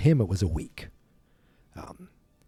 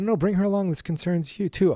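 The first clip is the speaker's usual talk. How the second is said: urgent Doc Brown; 9 semitones higher than usual. Retold or imitated. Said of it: "he said".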